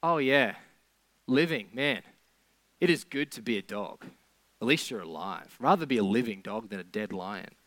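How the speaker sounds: mock the idea that life is good; sarcastic. Preacher voicing Kohelet's sarcasm to congregation, dry mock cheer. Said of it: "Kohelet is kind of sarcastically saying".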